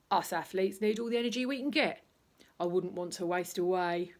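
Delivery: proud and pompous, slapping his tummy; boastful Mr Bulk. Acted. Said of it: "he would say".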